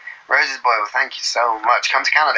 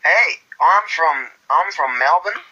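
slow, rising mock Australian; Australian accent; 3 semitones higher, slower than usual. Playing someone from Melbourne, drawn-out Australian accent. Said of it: "Australian accents".

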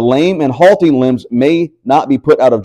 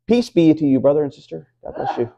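mock blessing; 5 dB quieter than usual. Sweet blessing after honking.

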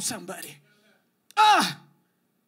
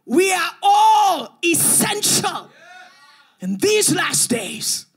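building preaching climax. Acted. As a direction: build to the peak. Rising climax.

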